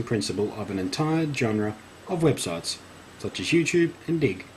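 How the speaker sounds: lively, projected reading; punchy announcer-like reading; article read-aloud. Acted. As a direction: read it out like a grand feature story.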